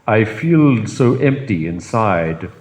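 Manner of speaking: slow, drawn-out mopey lemur voice; King Julian. Retold or imitated. King Julian on his presents, slow mopey sigh. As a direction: drag it out sadly like a spoiled king. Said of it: "and he says".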